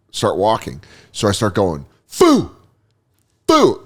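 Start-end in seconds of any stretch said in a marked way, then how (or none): 2.1-2.5 high-pitched mock yell; retold yelling. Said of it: "I'm just yelling this thing". 3.5-3.8 high-pitched mock yell; retold yelling. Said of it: "I'm just yelling this thing".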